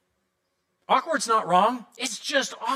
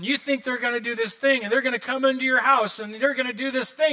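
usual speaking voice

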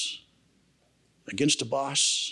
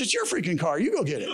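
mock-irritated retort rising higher; retold annoyance; 3 semitones higher, faster than usual. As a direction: throw the chore back, pitch climbing. Retold argument over a car.

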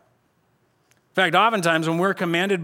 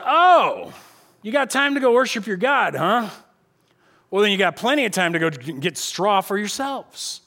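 mocking Pharaoh; 3 semitones higher than usual. Pharaoh mocks the people.

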